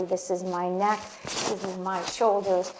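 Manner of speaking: tender affirmations reclaiming the body; gentle affirmation. Shown as a demonstration. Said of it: "give yourself that empowerment".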